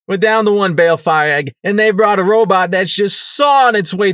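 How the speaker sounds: high, loud, urgent rush; panicked report. Acted. Rampage warning the others of big trouble, loud and alarmed. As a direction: blurt out the bad news in alarm.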